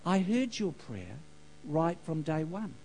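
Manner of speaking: lightly hushed, as God answering; retold whisper. God answering a man's prayer, in a hushed retold whisper. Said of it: "And the whisper said".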